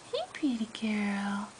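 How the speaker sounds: soft hushed whisper. Real, not acted. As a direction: breathe it out gently. Calming a shivering pet.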